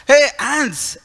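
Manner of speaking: sharp high shout of accusation; retold shout. Critical monk shouting at Mahaprabhu over ants, loud and high. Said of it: "he immediately started shouting".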